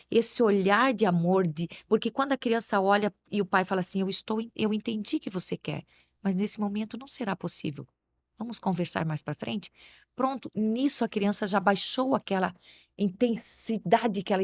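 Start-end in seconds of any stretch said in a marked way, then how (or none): 4.0-9.7 soft, patient parent's reassurance; gentle, soft to a child. Shown as a demonstration. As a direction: talk the child down kindly and softly. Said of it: "você falar baixinho também com a criança".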